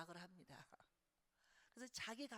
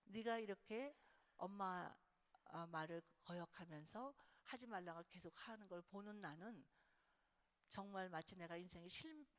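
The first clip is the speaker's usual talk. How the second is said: sincere appeal. Shown as a demonstration. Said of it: "이렇게 표현하는 거예요".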